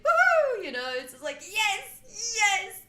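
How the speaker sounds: high, loud giggly cheer; Pillsbury Doughboy. Retold or imitated. The Doughboy cheering while tickled, high and loud. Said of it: "the Pillsbury Doughboy when he's like".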